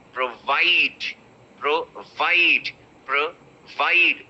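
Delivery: Provide with a very short pro, stress on VIDE. Shown as a demonstration. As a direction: clip the pro, land on VIDE. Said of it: "The pro is very short".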